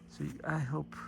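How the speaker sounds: soft unvoiced aside; whispering. Real, not acted. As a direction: breathe it out in a whisper. Quiet aside while filming flowers.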